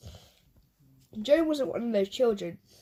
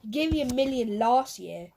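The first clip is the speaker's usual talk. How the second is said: whining. Acted. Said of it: "whined Joe".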